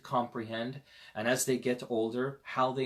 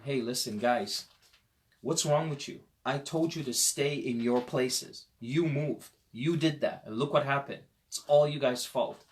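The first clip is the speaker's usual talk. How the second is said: rough scolding leader; 2 semitones higher than usual. Pretend. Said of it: "He doesn't do any of that".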